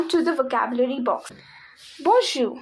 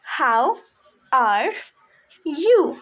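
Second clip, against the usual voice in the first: slow word by word; much slower than usual. Shown as a demonstration. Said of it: "spelled out slowly".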